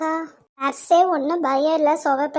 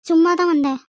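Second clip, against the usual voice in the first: teasing parrot of his excuse, a bit louder; mocking echo; 2 semitones higher, 5 dB louder than usual. Sathya mocks the senior's excuse by echoing it teasingly. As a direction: throw his words back at him.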